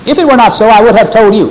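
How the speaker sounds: high, forceful emphatic quoting; "If it were not so" pitched high and insistent. Shown as a demonstration. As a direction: raise the pitch and drive "I would have told you" home.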